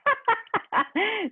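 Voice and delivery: loud, high mocking cackle; harsh cackle. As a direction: cackle over the dead man's loot. Cackles over the dead man.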